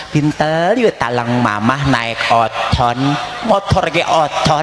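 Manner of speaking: put-on "Pintel" with l for r, slow lisping baby talk. Shown as a demonstration. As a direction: say "Pintel", "talang", "oton" like a lisping toddler. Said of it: "ulah ngomong cadel".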